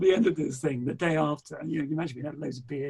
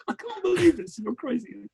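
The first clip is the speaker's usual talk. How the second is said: exasperated; 8 semitones higher, 4 dB louder than usual. Retold or imitated. Wife reacting.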